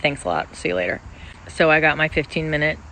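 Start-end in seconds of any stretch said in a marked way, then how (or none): 0.0-1.0 deep, breezy mock HR brush-off; a much lower, offhand corporate farewell; curt HR goodbye. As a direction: dismiss them lightly in a low voice. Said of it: "It's like".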